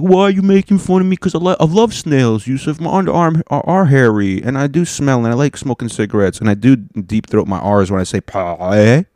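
high, fast, offended French complaint; a hurt Frenchman pleading with Yusuf; whiny French person. Retold or imitated. French person protesting to the comic, high and whiny. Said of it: "all the French people, like".

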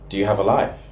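lightly mimicked Portuguese-accented English; imitated Portuguese accent. Colleague questioning a non-coffee drinker, imitated Portuguese accent. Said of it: "In this strong Portuguese accent".

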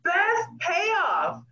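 mock crying. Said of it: "I was like".

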